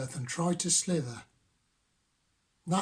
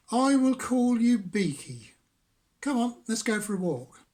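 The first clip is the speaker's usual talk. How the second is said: high, loud cheerful frog; a bouncy frog inviting a friend; 5 semitones higher, 4 dB louder than usual. Acted. Frog names Beaky.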